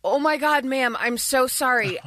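retold mock sympathy dripping with sarcasm; fake-sweet apology that is really a dig; sarcastic, bitchy voice. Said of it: "with the most sarcastic, bitchy voice".

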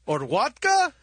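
put-on low comic Russian accent. Radio comic as Johnny Russia offering drinks, Russian accent. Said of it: "Johnny Russia".

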